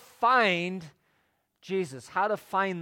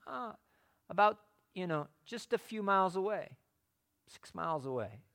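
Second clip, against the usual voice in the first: indifferent scholar; 6 dB quieter, faster than usual. Acted. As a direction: answer as if it's hardly worth the bother. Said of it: "They couldn't even be bothered".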